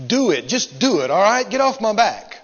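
mock fed-up surrender; exasperated. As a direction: act worn down and irritated. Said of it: "you're so exasperated until you just go".

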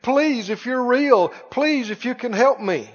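soft, lightly acted begging; imitated pleading. Christians in hospital rooms praying, imitated soft pleading. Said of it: "they're pleading".

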